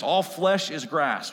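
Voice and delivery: slow and emphatic, stressing flesh; bold declaration. Shown as a demonstration. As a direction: proclaim it deliberately. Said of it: "needs to be declared boldly".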